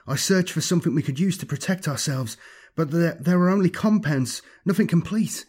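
put-on anxious young follower. Ossel reporting failure to his master, anxious follower.

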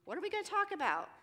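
high, upbeat coaxing; loud, high, inviting lilt. Retold or imitated. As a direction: draw them out with an eager, high-pitched question. Coaxing a reluctant teen.

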